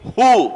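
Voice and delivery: "హూ" with breathy h and oo vowel; visarga as hu. Shown as a demonstration. Teacher answers how visarga ends, saying "హూ" with u. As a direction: echo the preceding u after h, "హూ". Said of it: "విసర్గను కూడా ఏ sound తోటి".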